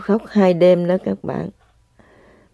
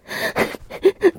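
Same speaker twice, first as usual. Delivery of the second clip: teary laugh; 10 semitones higher, 5 dB quieter than usual. Real, not acted. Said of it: "tôi phải khóc rồi các bạn ơi".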